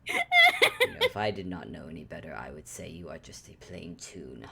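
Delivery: low muttered whisper. Acted. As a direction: mutter it under your breath. Antler muses under breath.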